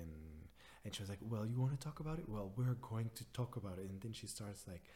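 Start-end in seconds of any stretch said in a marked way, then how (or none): 1.2-3.9 mock aggressive mom. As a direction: snap back like a defensive mom. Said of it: "being so aggressive".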